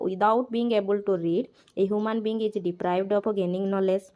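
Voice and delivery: slow, deliberate reading of the English text aloud; slow textbook reading. Acted. Teacher reads the textbook line aloud, very slowly. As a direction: read each word out slowly for the class.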